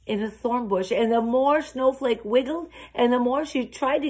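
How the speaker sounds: animated storyteller with lively emphasis; story narration for children. A narrator's reading. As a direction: tell it to a room of children, dramatizing each turn.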